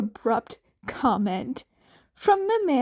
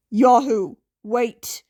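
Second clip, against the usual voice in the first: louder call to stop; 6 dB louder than usual. Acted. Aizawa calling after the departing vigilante, louder. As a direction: call after him to wait.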